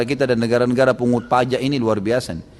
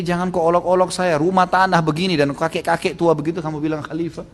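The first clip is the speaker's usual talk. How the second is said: higher, protesting voice; retold disbelief; 4 semitones higher than usual. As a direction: object as if being made fun of. Newcomer disbelieves the old man is caliph.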